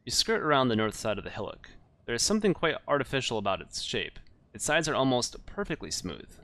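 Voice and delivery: measured gamebook narration; story narration. Acted. Narrator describing a strange hillock to the player, story narration. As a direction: read the adventure out as storyteller.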